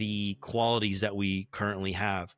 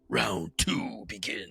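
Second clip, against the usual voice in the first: slow, softer game-announcer call; mock fight announcer; 5 dB quieter, slower than usual. Game master opens the duel's next round, mock announcer. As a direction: stretch it out like an arcade round announcer.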